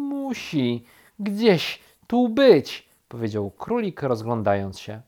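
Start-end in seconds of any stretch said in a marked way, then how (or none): 0.1-2.9 high, slow, drawn-out words; muttered searching. A narrator's reading. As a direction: talk to yourself while hunting around. Rabbit searching around.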